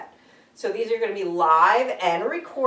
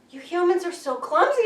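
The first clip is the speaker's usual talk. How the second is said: high, laughing voice of an annoyed cat; the cat scolding her owner, high and mocking; cat's scolding voice; 10 semitones higher, 3 dB louder than usual. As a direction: voice the cat looking down on clumsy humans.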